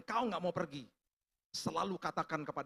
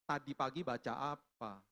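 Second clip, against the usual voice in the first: low, slow, measured question; lightly voiced Holy Spirit, lower and unhurried; voice of God; 5 semitones lower, slower than usual. The Holy Spirit questions a sick man, calm and low. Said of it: "Suara yang sama seperti yang awal".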